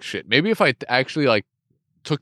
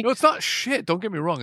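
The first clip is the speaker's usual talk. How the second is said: high protesting voice; 8 semitones higher, 3 dB quieter than usual. Real, not acted. Protesting misunderstanding.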